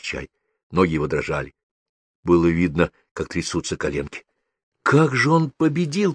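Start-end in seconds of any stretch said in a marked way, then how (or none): 4.8-6.1 high, slow exclamation of wonder; amazed. A narrator's reading. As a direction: marvel at it, stretching the words high. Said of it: "поразился я". (изумлённое протяжное восклицание)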